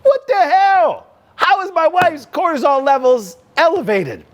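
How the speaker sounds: high, slow, stunned outburst; a real double take at the lab result; shocked disbelief. Retold or imitated. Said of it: "I'm like".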